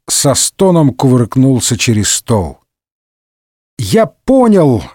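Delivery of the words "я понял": high, slow eureka cry; exclaiming. Acted. Mazarin realising what Fronde means, excited exclamation. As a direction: cry out the discovery. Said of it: "воскликнул Мазарини".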